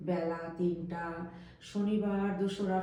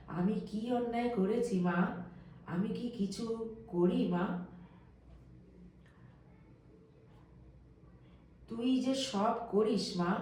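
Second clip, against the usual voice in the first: higher pleading voice; pleading to Mother; 4 semitones higher than usual. A narrator's reading. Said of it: "ঠাকুর আবার মাকে বলিতেছেন". (মায়ের কাছে উঁচু গলায় মিনতি)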